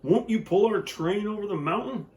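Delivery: high begging toy voices; desperate toys begging; toys crying out. Acted. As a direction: plead in little high voices. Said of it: "cried all the dolls and toys".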